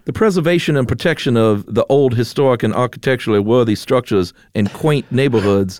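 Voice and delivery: put-on old-timey Mid-Atlantic accent, read formally. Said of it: "can you please read it in a Mid-Atlantic accent".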